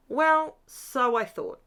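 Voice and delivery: slow wry whisper. Acted. Crafter admits to viewers the fix failed, in a slow whisper. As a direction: whisper it knowingly, drawn out.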